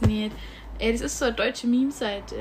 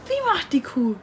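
put-on reading to a toddler; 5 semitones higher than usual. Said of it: "wie so ein Spiel spielen".

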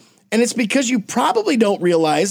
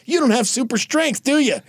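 higher-pitched taunting question; mock condescension; 6 semitones higher than usual. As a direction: talk down to him, hammed up. Superman mocking Aquaman.

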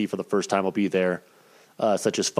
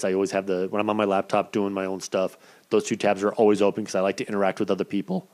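hoarse, fading voice; voice giving out. Real, not acted. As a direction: voice cracking and giving out. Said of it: "you can hear my voice disappearing".

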